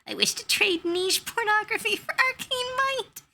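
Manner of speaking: high, grand mock-formal declaration; grand player quote. DM quoting the player's offer to the wizard, mock grand. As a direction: proclaim it like a pompous adventurer.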